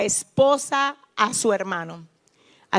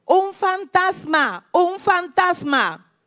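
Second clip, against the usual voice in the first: grito de miedo narrado; 7 semitones higher, slower than usual. A narrator's reading. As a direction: read the disciples' frightened cry, stretched and high. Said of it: "Llenos de miedo, gritaron". (grito de miedo leído, agudo y alargado)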